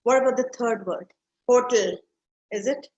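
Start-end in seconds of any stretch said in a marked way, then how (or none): 1.5-2.0 Hotel stressed on the first syllable; HO-tel, front-loaded Hotel; wrong stress. Shown as a demonstration. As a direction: punch the HO of Hotel, loud. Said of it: "No, it's hotel".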